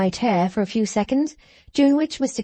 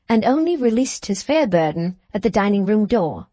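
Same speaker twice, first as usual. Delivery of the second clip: ordinary delivery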